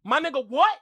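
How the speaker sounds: mimicking the clip's Toronto lingo, rising at the end; Toronto slang. Streamer echoing the clip to show Toronto talk, lightly mimicked. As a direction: echo the Toronto street retort, voice lifting on "what". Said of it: "That's us. That's how we speak".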